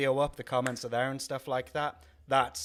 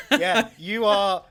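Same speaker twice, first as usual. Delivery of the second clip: laughing; 7 semitones higher, 8 dB louder, much slower than usual. Real, not acted. Laughing at friend's outright insult.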